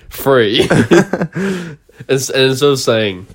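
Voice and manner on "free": three said as free. Shown as a demonstration. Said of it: "I say".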